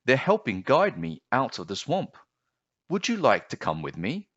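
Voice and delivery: put-on child voice, pitched high and hesitant; young boy. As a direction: sound like a puzzled small boy.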